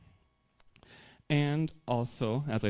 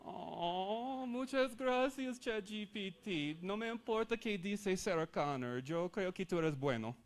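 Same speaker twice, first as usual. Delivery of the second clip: higher and softer, like a self-conscious learner; mock shy student; 5 semitones higher, 8 dB quieter than usual. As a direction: pretend to doubt your own accent, half-playful. Pretends to be insecure learner with AI.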